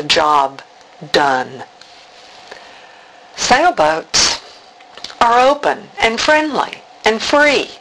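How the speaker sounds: measured verse with deliberate pauses; spoken prayer-poem, unhurried and spaced out; poem recital. Acted. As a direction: recite phrase by phrase, lingering on the images. Recites a prayer poem she wrote.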